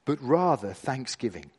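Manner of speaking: measured Bible reading with deliberate pauses; scripture reading. Acted. Preacher reading Ephesians to the gathered church, measured scripture reading. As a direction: read scripture aloud, weighing each phrase. Reads scripture aloud to congregation.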